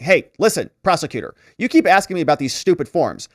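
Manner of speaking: impatient witness waving off repeated questions; curt. Retold or imitated. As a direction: cut the prosecutor off, irritated and curt. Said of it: "Robbins is being very curt".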